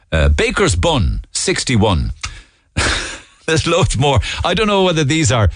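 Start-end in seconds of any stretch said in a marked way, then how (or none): 0.3-2.1 bingo caller. Pretend. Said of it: "I wouldn't mind doing a bingo call".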